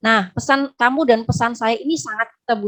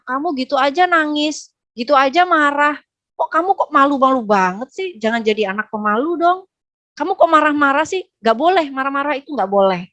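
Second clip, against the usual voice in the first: mock scolding, pitched up; scolding parent; 3 semitones higher than usual. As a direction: chide a child in exasperated disbelief, lightly acted. Parent scolding child's feelings, acted. (menirukan orang tua mengomeli anak)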